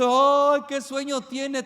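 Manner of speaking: loud burst on ay, then a mocking host's sleepy hint; host hinting at you to leave. Party host hinting the guest should go, mocking and loud. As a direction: call out ay like a tired host nudging a guest. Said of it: "te dice el dueño".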